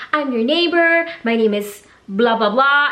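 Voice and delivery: chirpy neighbor. Retold or imitated. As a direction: introduce yourself too brightly to cover embarrassment. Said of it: "she's like".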